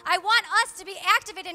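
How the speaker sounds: loud, insistent exhortation; impassioned preaching. Real, not acted. Preacher calls church to press in, impassioned. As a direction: urge the room, punching key words.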